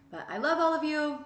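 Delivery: high, loud burst of affection; big excited declaration of love; loving exclamation. Real, not acted. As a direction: gush love at the audience. Affectionate sign-off.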